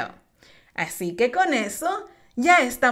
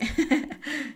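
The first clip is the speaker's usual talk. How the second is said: soft laugh; 2 semitones higher, 8 dB quieter than usual. Real, not acted. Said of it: "suena súper chistoso".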